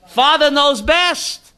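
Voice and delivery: drawn out, rising on best; slow, insistent second take; slow emphatic repeat. Shown as a demonstration. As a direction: slowly drive the point home.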